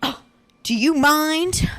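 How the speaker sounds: a rude stranger told off, mock-snippy and drawn out; mock snippy complaint. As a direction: imitate a stranger snapping at a smoker. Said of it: "he snip snapped at you".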